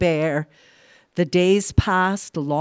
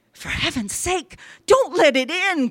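raised, horrified plea growing louder; trembling horror; 10 semitones higher, 4 dB louder than usual. A narrator's reading. Old man begs his wife, crying in horror. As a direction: beg in dread, then cry out. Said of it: "cried the old man, trembling in horror".

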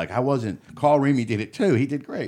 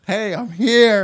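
much higher, louder, laughing chirpy hello; awkward eager guy; 10 semitones higher, 7 dB louder, much slower than usual. Pretend. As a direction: play the uninvited guy announcing himself. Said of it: "be the guy who shows up".

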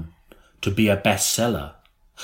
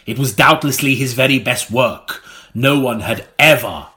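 ironic. Acted. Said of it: "Is that irony or what?".

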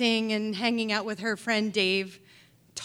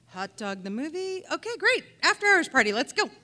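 a sudden high squeal of delight on great; giddy yes, jumping at the chance; thrilled inner voice; 5 semitones higher than usual. Retold or imitated. Her thoughts, thrilled by the invite.

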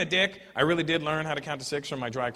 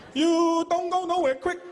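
put-on Chinese accent; 12 semitones higher, slower than usual. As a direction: chop the words short like cutting vegetables. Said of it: "chopping vegetables with the words".

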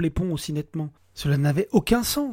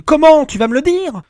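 louder, higher and fast, swearing at the end; husband yelling at his wife for answers; furious yell; 11 semitones higher, 13 dB louder than usual. Acted. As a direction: explode at her. Alex still yelling at Emma.

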